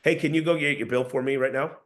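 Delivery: "right now" said with absolute certainty; certain, authoritative request; downward tonality. Shown as a demonstration. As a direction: make "can you go" an instruction, not a plea. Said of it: "absolute certainty and with a downward tone".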